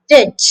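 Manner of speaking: "Did" alone, crisp and short; first part demo. Shown as a demonstration. Teacher drilling the first part of the word. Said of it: "say did first".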